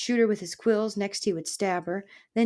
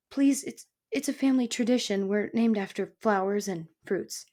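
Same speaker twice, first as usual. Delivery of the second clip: put-on nervous young mouse. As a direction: hurry through it, pleading.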